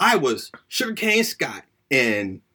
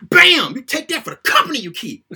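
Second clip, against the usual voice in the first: mock wrestler taunt; 4 semitones higher, 4 dB louder than usual.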